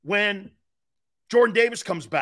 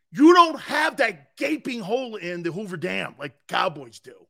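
loud, fired-up shout; hyped radio host yelling; excited shout; 3 dB louder than usual. Real, not acted. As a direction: yell it to the fans. Excited rant to fans.

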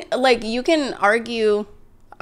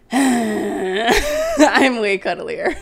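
imitating partner; much slower than usual. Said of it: "And Sam was like".

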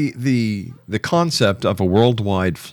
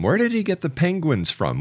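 laughing disbelief; 6 semitones higher than usual. Real, not acted. Incredulous question about the ark.

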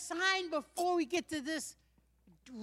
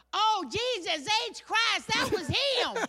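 high, drawn-out Southern astonishment; starstruck amazement; 6 semitones higher, slower than usual. Acted. Local realizing he just saw Muhammad Ali, high starstruck amazement. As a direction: exclaim it slowly, pitched up, like an awed local.

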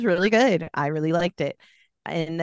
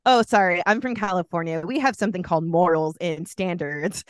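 sassy; 3 dB louder than usual. Retold or imitated. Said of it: "I'm like".

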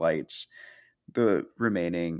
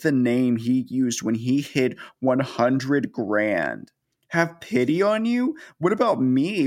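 mock berating; 3 semitones higher than usual. Helen berates Danny for forgetting the name, mock furious tirade. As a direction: rant at him like a cheated wife, half-acted. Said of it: "Helen proceeds to berate his ass so hard".

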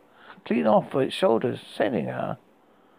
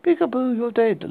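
put-on high, loud taunting child; creepy girl shout; 7 semitones higher, 3 dB louder than usual. A narrator's reading. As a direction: shout it out gleefully menacing. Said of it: "shouted out to Tom".

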